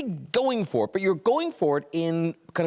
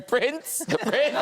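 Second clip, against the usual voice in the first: raised, lilting pet call; calling a dog; 5 semitones higher than usual. Retold or imitated. Guest teases host about calling Prince, dog-calling voice. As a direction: call it up high with a questioning lift. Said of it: "like you're calling a dog".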